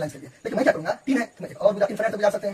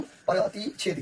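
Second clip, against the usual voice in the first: प्रतिच्छेदी drawn out syllable by syllable, slow and even; slow dictation; 4 dB quieter, much slower than usual. Shown as a demonstration. Teacher to class, spelling out प्रतिच्छेदी slowly. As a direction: say प्रतिच्छेदी slowly, as if writing it on the board. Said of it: "Hindi में भी मैं लिख देता हूँ".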